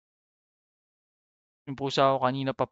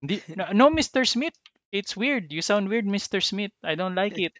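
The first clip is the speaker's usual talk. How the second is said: higher, louder mock caller voice, pushy; mock American caller; 8 semitones higher, 5 dB louder than usual. Mimicking a rude American caller to his laughing friend, hammed-up. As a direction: play a rude caller mocking an accent. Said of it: "sila yung sumunod sa accent ko".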